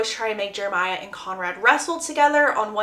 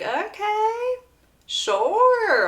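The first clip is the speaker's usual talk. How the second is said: high, hesitant, uneasy agreement; awkward reluctant okay; 11 semitones higher, much slower than usual. Acted. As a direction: go along without really wanting to. Belly awkwardly agreeing to party.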